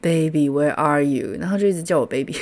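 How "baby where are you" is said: tipsy drawl. Retold or imitated. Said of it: "他就有点喝醉".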